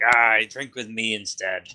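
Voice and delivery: hearty pirate invitation; lightly voiced pirate dwarf. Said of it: "He's back to the pirate".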